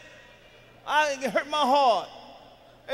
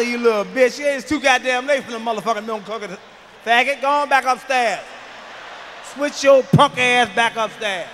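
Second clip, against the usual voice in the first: put-on yelling at the kid; 5 dB louder than usual. Comic scolding the kid caught sneaking milk, angry and loud. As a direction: bark the kid back upstairs. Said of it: "That's how I talk to him".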